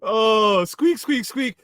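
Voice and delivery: tiny high squeaky critter voice; gopher squeak. Retold or imitated. A vlogger mocking the gopher with a high squeak. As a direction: squeak it like a little rodent.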